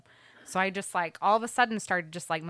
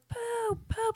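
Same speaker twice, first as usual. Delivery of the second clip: lightly voiced little girl, much higher; screaming toddler. Mom imitates her crying daughter, much higher pitched toddler wail. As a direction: squeal it like a toddler in distress. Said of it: "And she's just like".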